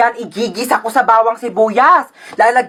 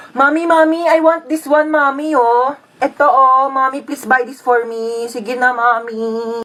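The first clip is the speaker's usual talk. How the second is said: put-on whiny child begging; 2 semitones higher, slower than usual. Child begs mommy for a toy, whiny pleading. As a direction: beg like a spoiled little kid.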